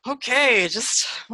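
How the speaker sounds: taken aback and unsure what to add; wide-eyed reaction. Acted. Aiden reacting to Felicity seeing the future, wide-eyed. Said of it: "a wide-eyed, like".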